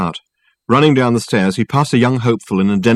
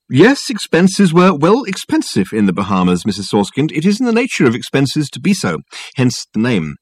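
pompous, persuasive detective talking up his case; lofty and smooth, selling it hard; raised, orotund appeal; Dirk's grand phone voice; 4 semitones higher than usual. Acted. Dirk relaxing into negotiations.

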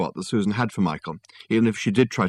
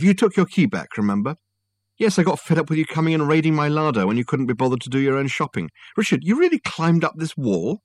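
female voice; 8 semitones higher than usual. Acted. Susan voiced by narrator.

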